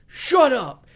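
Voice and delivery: high, loud mock outburst; imitated disbelief shout. Reacting to a Stallone movie tale, imitated shout of disbelief. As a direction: cry out in acted disbelief. Acting out disbelieving character's reply.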